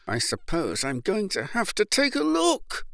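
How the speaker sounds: nervous dentist muttering under his breath; reluctant mutter. A narrator's reading. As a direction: mutter it to yourself, unwilling. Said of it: "He muttered".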